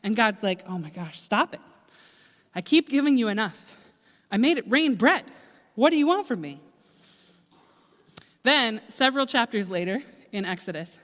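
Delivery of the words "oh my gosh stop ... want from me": exasperated plea. Acted. Exasperated God.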